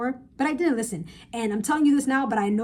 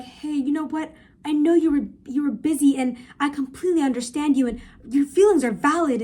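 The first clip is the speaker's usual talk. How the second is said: mock appeasing text; 4 semitones higher than usual. Acting out a pleading text.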